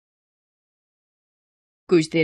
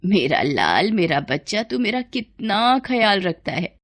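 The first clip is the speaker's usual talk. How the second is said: tender motherly affection; 3 dB quieter than usual. Acted. Mother touched by her son's care, tender and doting. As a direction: coo fondly over a beloved child.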